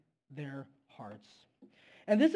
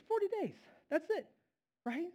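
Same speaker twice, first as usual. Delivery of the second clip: high incredulous emphasis on Forty days; as if you can't believe how short it was; 9 semitones higher than usual. Real, not acted.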